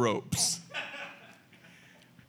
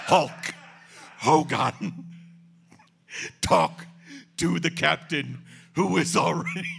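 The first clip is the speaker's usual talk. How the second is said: manic wrestler promo with German edge; half-German shouted wrestler rant; Ultimate Warrior promo; 3 semitones higher than usual. Retold or imitated. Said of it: "Ultimate Warrior turned into Colonel Klink".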